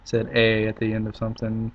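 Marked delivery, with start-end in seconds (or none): 0.3-0.7 loud Canadian "a" tacked on; Canadian accent "a" as eh; mock Canadian "a". Shown as a demonstration. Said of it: "attempt to do a Canadian accent".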